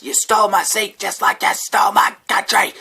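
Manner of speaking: put-on high, loud indignant drunk; homeless guy's voice. Homeless man accusing me of stealing his country, mock outrage. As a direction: play the aggrieved stranger big. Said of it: "And he goes".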